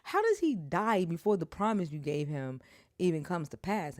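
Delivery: loud angry demand; angry outburst. Retold or imitated. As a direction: shout it up to heaven, then sink. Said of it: "I'm, I'm mad".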